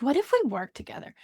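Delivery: eager repeat. Retold or imitated. Repeating her idea to the host, quick and eager. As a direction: say it again with eager momentum. Same thought repeated with more energy.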